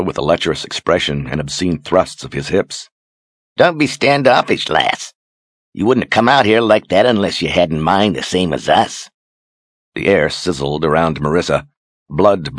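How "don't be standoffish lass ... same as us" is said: high, coarse taunting sailor voice; leering sailor. Acted. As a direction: jeer at her like a lewd deckhand. Leering deckhand taunts the woman.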